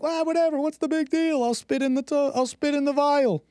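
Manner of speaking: put-on high, breezy valley-girl voice; airy mocking impression of a carefree girl; mocking dismissive girl. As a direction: toss it off like it's nothing. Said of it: "And I'm like".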